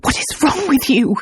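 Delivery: demanding. Acted. Alicia confronting Luke, demanding. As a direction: demand an answer. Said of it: "Alicia demanded".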